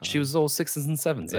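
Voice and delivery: chirpy Austin Powers style; mock British accent. Quoting the movie to friends in mock British.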